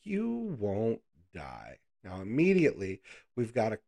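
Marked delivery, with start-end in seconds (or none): 0.0-1.8 very slow, drawn-out serpent, each word stretched; slow snake lie. Acted. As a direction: draw it out like a tempting snake. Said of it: "the snake tells her".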